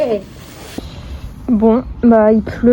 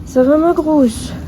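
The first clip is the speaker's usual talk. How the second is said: higher, slow pet talk; 5 semitones higher, slower than usual. Real, not acted. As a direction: sweetly ask the pony how she is. Talking to the old pony.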